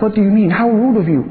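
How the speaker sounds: mild indignation, climbing in pitch as it builds; retold indignant scolding. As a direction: imitate an affronted doctor telling someone off, pitch rising. Doctor scolds woman who can't pay.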